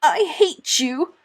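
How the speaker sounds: acted child crying out in fury; croaked cry. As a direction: force it out, choked with rage. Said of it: "she cried in a croaked voice".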